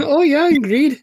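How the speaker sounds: high, loud mocking echo of "ingreed"; teasing echo. Co-host mocking the ingreed slip, teasing and loud.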